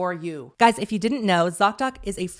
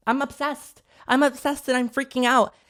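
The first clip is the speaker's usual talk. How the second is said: rising mock freak-out, higher by the end; retold freaking out; 4 semitones higher than usual. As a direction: act out an overwhelmed fan losing it. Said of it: "and I was freaking out".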